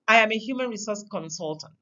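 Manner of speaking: I am a human resource consultant, fast, leaning on the opening I; stress on I. Shown as a demonstration. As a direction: lead with a stressed I, then rush through. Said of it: "I have laid emphasis at different points".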